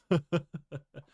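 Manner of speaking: high, loud burst of chuckling; chuckle. Real, not acted. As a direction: laugh off the little plug. Laughs after asking for viewer support.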